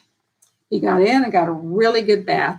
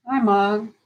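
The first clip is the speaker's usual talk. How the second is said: soft, slow hello to Mom; gentle slowed greeting; 5 dB quieter than usual. Shown as a demonstration. Caregiver greeting her mother, slow and soft. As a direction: ease into it gently, voice dropping away. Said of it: "slow it down".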